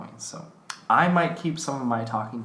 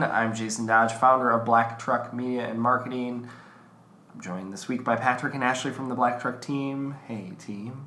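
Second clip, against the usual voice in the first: stuffy allergy nose; nasal, blocked-up voice. Real, not acted. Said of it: "overly nasally voice".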